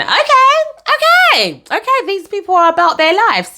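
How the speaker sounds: high, far-off voice for an awed thought; starry-eyed okay okay okay; impressed inner voice. Retold or imitated. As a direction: play the wide-eyed young girl impressed by the crowd. Inner thought, impressed by VIP entry.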